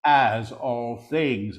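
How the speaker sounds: deliberate full-voice repeat; measured proclamation. Real, not acted. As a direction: proclaim it clearly, word by word. Same words repeated slowly.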